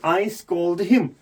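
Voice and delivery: very slow, each word spelled out; slow correction. Shown as a demonstration. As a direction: dictate the right form slowly, I scold him. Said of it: "नहीं". (धीरे धीरे सही वाक्य बोलना)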